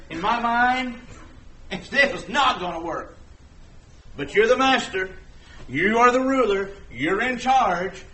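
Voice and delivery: defer like a fisherman who knows better but obeys; a hint of a reluctant fisherman; Peter giving in. Peter voiced yielding to Jesus.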